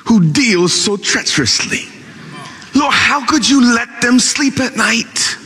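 a lightly voiced aggrieved prayer; complaint poured out to the Lord; complaining prophet. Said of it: "he began to complain".

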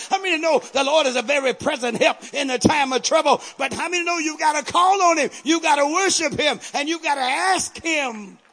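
building, loud preacher cadence; full-force preaching. Acted. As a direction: drive the praise home to the congregation.

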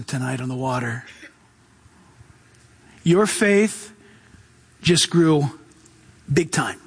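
gentle Jesus voice. Acted. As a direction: speak low and kind, like a proud mentor. Jesus reassuring Peter, voiced.

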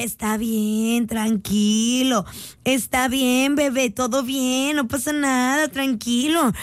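mock soothing. Mock soothing upset commenter.

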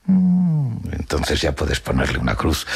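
write him off as the harsh grandmother; callous dismissal. Acted. Grandmother writes off the missing father, callous.

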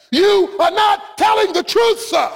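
a hint of Tom Cruise pressing the witness, slow; Tom Cruise line. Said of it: "he looks at him and he says".

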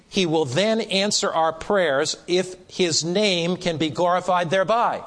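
measured and deliberate; slow, powerful reading. Real, not acted. Preacher closing a quoted statement for the class, slowly. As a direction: read slowly, spacing out the key words. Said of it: "I'll read it slowly because it's so powerful".

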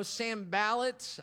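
Sanballat said slowly, plain English sounds; anglicized name. Shown as a demonstration. Pastor unsure of the name, saying it slowly and plainly English. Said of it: "in the most English way I know".

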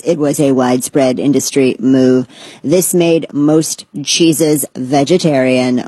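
lightly robotic monotone read, barely changed. Pretend. Reading dry science facts to viewers, in a barely robotic monotone. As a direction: drone it out like a dry machine. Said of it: "I'm just gonna say it in a robot voice".

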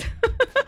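high, rippling giggle; light burst of high laughter; amused laugh. Real, not acted. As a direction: giggle away at the joke. Laughs at big ears joke.

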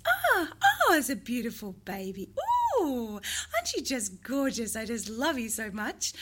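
put-on high, sing-song cooing to a baby; sing-song motherese. Shown as a demonstration. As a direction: coo it like a parent to a newborn. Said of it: "communicating with this".

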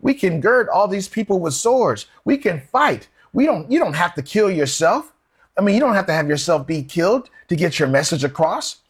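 high, pleading protest as Peter; an eager disciple pushing back, pitched high. Acted. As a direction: raise the pitch and argue him out of dying. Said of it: "And Peter stopped him and said".

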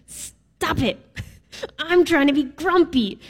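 laughing, breathy stop it through giggles; mock-annoyed, laughing as you beg; laughing grumpy plea. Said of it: "And you're like".

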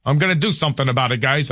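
a hint of New York wise guy accent. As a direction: say it as a casual New York everyman, accent lightly sketched. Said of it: "I don't know why I adopted that accent".

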